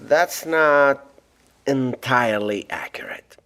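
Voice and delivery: hushed secretive whisper. Acted. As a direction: drop to a breathless whisper to share a secret. Reveals hidden truth, hushed.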